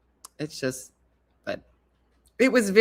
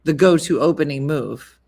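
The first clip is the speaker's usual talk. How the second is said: louder, insistent correction; 2 semitones lower, 6 dB louder than usual. Retold or imitated. Missy insisting on the opening move, louder. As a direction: insist it's the standard move. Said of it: "She's like".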